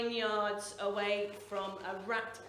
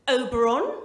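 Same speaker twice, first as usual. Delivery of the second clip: posh mum calling; 8 dB louder than usual. Retold or imitated. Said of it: "all I could hear was".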